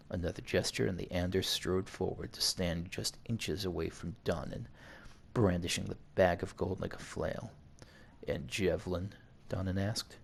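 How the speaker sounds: measured read-aloud narration; story narration. A narrator's reading. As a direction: narrate it evenly like an audiobook. Reads game story aloud.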